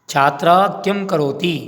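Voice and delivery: "किम" closed on m inside "छात्र किम करोति"; teacher's model reading with a clear m in "किम"; model pronunciation. Shown as a demonstration. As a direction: demonstrate "किम" as kim, with a half m before "करोति". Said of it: "इस तरह से".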